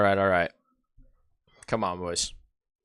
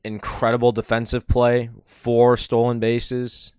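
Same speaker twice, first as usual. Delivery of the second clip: excited; 3 semitones higher, 6 dB louder than usual. Real, not acted. Hyping big playoff performance.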